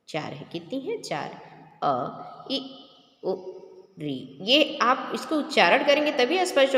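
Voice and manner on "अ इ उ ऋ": short, clipped अ इ उ ऋ; short vowels said one by one; short vowel demo. Shown as a demonstration. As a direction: say each short vowel quickly. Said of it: "आप बोल करके खुद से देखेंगे".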